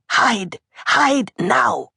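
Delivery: high, hushed urgent command. A narrator's reading. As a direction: order the children to hide at once. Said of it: "pointing urgently toward her bedroom".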